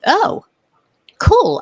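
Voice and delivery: high bright oh cool; quick high surprised approval; pleasantly surprised. Retold or imitated. Her reply to food truck.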